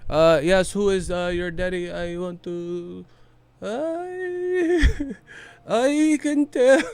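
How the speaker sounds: cracking up mid-impression in a Pacquiao accent. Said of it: "Pacquiao mama curse".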